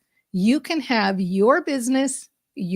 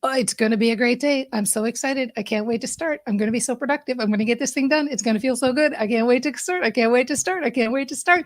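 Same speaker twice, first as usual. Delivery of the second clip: upbeat self-talk; faster than usual. Shown as a demonstration. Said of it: "if you start with just by saying".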